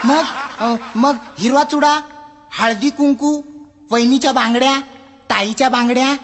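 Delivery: high, whiny request; pleading customer. Acted. Customer begs the librarian, high and whiny. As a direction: wheedle for any book at all.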